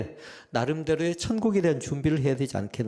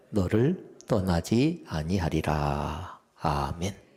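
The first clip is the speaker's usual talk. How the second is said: slow, deliberate verse reading in short phrases; slow scripture reading; 3 semitones lower, slower than usual. Real, not acted. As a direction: lead the congregation through the verse slowly.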